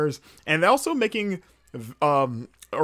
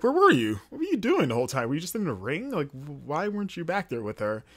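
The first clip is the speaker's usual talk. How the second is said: mock scolding; 2 semitones higher than usual. Fan scolds the useless sidekick for showing up late, exasperated. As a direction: demand answers in mock disbelief.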